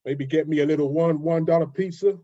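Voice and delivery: put-on New York accent; American accent. London guest showing the host his best American accent, put-on New York accent. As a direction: play a New Yorker listing the boroughs, American accent. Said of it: "your best American accent".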